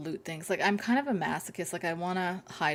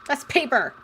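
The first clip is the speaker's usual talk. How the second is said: excited discovery; 7 semitones higher than usual. Real, not acted. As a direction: call out each find with delight. Excited at loot.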